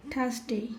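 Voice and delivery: "থার্সডে" said "thas-dei", no R; careful falling "থার্সডে" with R left out; silent R. Shown as a demonstration. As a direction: drop the R in "থার্সডে". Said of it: "এখানেও আর এর উচ্চারণ".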